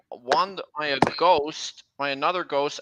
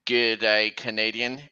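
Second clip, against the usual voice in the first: killer freight car; 5 semitones lower than usual. Acted. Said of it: "he will say".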